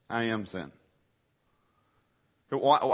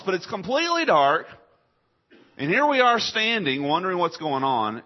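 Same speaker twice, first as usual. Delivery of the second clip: preaching at full force; 8 semitones higher, 5 dB louder than usual. Acted. Preacher dramatizes darkness at crucifixion.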